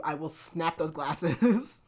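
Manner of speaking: drawn-out, deliberate, every word spaced; slow menacing threat. Retold or imitated. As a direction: lean into the threat slowly, daring him. Heroine repeats the threat slowly.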